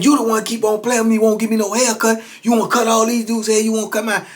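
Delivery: retold griping at the barber; imitated complaint.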